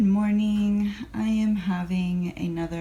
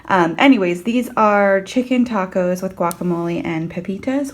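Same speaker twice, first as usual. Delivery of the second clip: out of breath; 6 dB louder than usual. Real, not acted. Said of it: "Sorry, I'm super out of breath".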